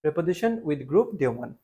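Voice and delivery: slow, word-by-word dictation pace. Shown as a demonstration. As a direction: spell it out slowly for students to write. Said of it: "এভাবে লিখো". (ধীরে ধীরে শ্রুতিলিখন)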